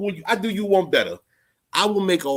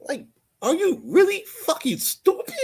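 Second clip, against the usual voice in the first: higher whining disbelief; 14 semitones higher than usual. Real, not acted. Exasperated rant at a chat troll.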